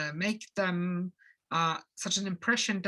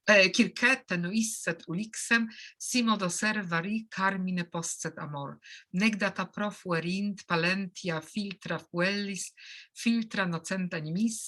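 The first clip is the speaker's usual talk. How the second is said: reading Latin verse. Shown as a demonstration. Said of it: "I will read, a bit of, elegiac couplet".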